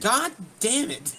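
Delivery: loud, high, laughing curse; laughing outburst. Real, not acted. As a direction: blurt it out through laughter.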